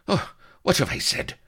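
high, loud mock horror; pretended remorse. A narrator's reading. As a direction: feign regret at a slip. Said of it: "in pretended remorse".

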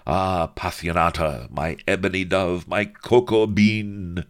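hammed-up lustful suitor; amorous lecher. A narrator's reading. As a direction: lay the flattery on thick. Lecher wooing Sheba.

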